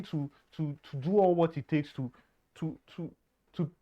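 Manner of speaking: stuck on repeated words; stammering, can't get the words out; stuttering. Real, not acted. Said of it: "That's why I'm stuttering".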